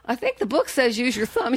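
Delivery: high-pitched, naive quibbling; mock-innocent nitpick, pitched high; imitated nitpicking. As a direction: query your hero like a fussy pupil. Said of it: "nitpicking and asking him all these questions".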